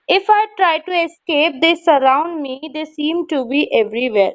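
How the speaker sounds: slow, deliberate poem recital; measured classroom reading of a verse. Shown as a demonstration. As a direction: read each word out slowly for the class. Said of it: "teacher reads poem aloud".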